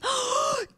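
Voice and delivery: sharp high gasp of delight; excited gasp. Real, not acted. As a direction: gasp with sudden joy. Finds a diamond.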